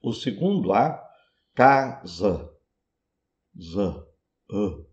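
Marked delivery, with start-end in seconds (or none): 1.5-2.5 "casa" with a short, closed final A. Shown as a demonstration. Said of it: "Esse A do final de casa, ele é curto". 4.5-4.8 "A" short and closed. Shown as a demonstration. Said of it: "ele é curto e é fechado".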